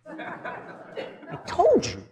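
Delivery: high, slow, laughing told-you-so; mock exasperated scolding. Preacher imagining scolding Peter, high and laughing. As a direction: scold a friend who never listens, half laughing. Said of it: "That's the Hispanic in me coming out".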